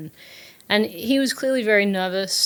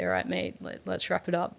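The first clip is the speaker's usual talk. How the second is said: a hint of a matey pat on the back; blokey brush-off; 5 dB quieter than usual. Principal's imagined brush-off.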